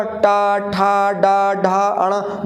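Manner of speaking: teacher's recited retroflex टा, ठा, डा, ढा, अणा; retroflex sounds demonstrated. Shown as a demonstration. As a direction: curl the tongue up for टा, ठा, डा, ढा, अणा. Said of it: "मूर्धा से".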